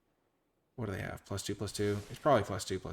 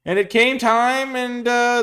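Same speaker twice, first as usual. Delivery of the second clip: high, loud, drawn-out story cue; resume the tale with theatrical flourish; fairy-tale narration; 16 dB louder, much slower than usual. A narrator's reading. Streamer picking the story back up, grand high narration.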